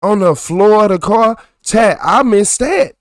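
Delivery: loud, high outraged repeat; calm turning angry. Real, not acted. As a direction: yell it at chat in outrage. Repeats louder to chat.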